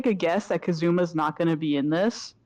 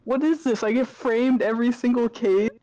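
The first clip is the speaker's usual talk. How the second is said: exasperated protest; 4 semitones higher than usual. Acted. Framed prisoner protesting in game.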